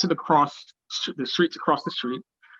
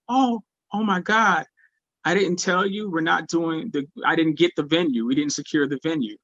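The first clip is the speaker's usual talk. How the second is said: imitating a caught-out promoter, higher pitch; flustered realisation; 3 semitones higher than usual. Promoter realises she forgot to tell.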